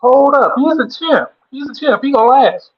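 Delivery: loud, fired-up shouting; hype shout. Real, not acted. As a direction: bellow it to hype up the crowd. Hyping up his partner loudly.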